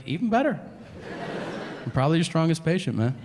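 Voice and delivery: high, proud bragging; cocky boast. Retold or imitated. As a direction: brag like you're the strongest.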